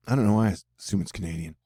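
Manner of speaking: ordinary talk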